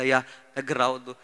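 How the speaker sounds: low, subdued imitation of weeping; understated tearful warning; retold tearful plea. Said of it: "ఏడుస్తుంది".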